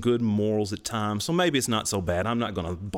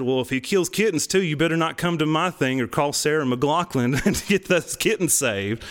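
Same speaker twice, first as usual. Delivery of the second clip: loud, raised-pitch heckling comeback; joking retort; 5 semitones higher, 5 dB louder than usual. Retold or imitated. Student heckling campus protesters about kittens, loud joking retort. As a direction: call it back at them, punching the beats.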